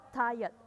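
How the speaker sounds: "Tired" as "tai-uht"; "Tired" with a schwa where the r is written; silent r. Shown as a demonstration. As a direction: say "Tired" without any r. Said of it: "R-nya nggak dibaca".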